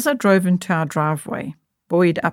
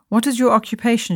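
probing; 5 semitones higher than usual. Acted. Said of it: "she probed".

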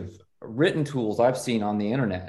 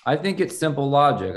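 put-on Southern accent; 4 semitones higher, 4 dB louder than usual. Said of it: "I need to get my Southern accent really on".

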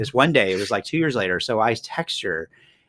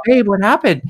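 high, louder mock-tearful plea; pitched-up imitation of a crying wife; imitating crying wife; 10 semitones higher, 7 dB louder than usual. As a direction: act out a distraught wife.

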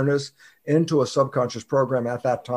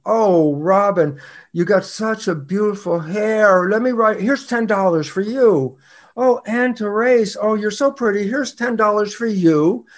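higher-pitched, drawn-out mock gushing; gushing flattery; 5 semitones higher than usual. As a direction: lay on the sweet talk, slowly. Mock generous flattery of people.

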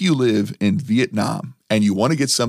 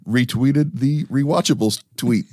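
like Rico Suave; 3 semitones higher than usual. Shown as a demonstration. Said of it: "I'll say it like Rico Suave".

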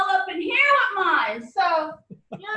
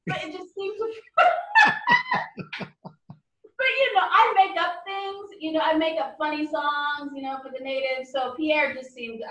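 normal talking voice

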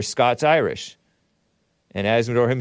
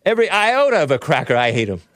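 mock angry read; 4 semitones higher, 4 dB louder, faster than usual. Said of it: "It's a black guy saying that".

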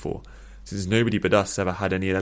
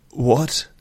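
raised, loud, disbelieving question; shocked; 5 semitones higher, 6 dB louder than usual. A narrator's reading. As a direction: blurt it out in shock. Shocked by the confession.

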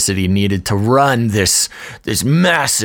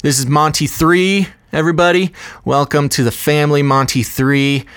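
excited introduction; 5 semitones higher than usual. Real, not acted.

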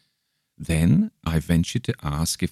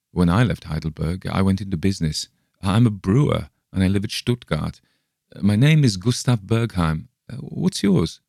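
lightly voiced friendly young German, a bit higher; chatty, eager traveller introducing himself; a hint of a cheerful German brewer; Bergheim the German brewer; 3 semitones higher than usual.

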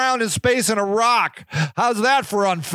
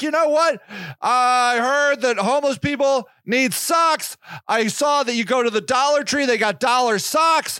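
eager do-gooder; 3 semitones higher than usual. Retold or imitated. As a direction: brag cheerfully about socks. Voicing the sock-giving woman.

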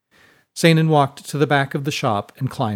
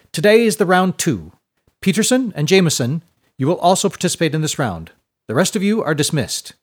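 high, loud and delighted; beaming rector; 5 semitones higher, 4 dB louder than usual. A narrator's reading. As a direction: announce the results proudly to the class.

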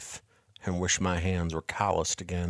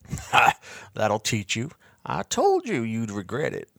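gloating laugh; 2 semitones higher than usual. Acted. Bartleby gloating at boy.

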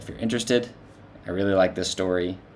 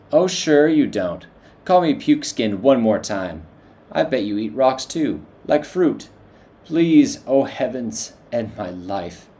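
much higher and louder, slow furious rant; exasperated; 5 semitones higher, 6 dB louder, slower than usual. A narrator's reading. Elf ranting at the dwarf, exasperated and loud. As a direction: plead to the heavens in exasperation.

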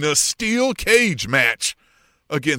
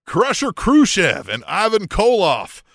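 "Crusher Khrushchev and Ivan Koloff" in a mock Southern trucker accent, a bit louder; a half-joking Southern trucker twang on the names; Southern trucker accent, reading wrestlers' names; 3 semitones higher, 4 dB louder than usual. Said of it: "I said that like a Southern trucker".

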